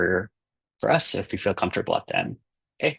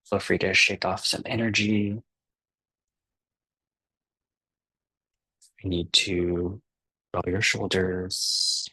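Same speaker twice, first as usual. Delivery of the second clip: unhurried meditation guide with long pauses; calm guiding voice, softening and slowing towards the breaths; guided meditation. Acted. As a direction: ease them gently into relaxing, leaving space between phrases.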